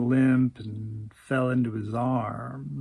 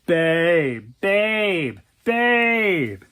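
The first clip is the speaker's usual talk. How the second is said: pleading interruption; 5 dB louder, much slower than usual. Acted. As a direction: try to get a word in, loudly. Boyfriend tries cutting into her tirade.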